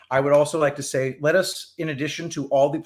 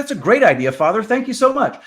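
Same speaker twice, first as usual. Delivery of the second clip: grateful woman; 9 semitones higher, 7 dB louder than usual. Acted. Woman thanking priest in joke.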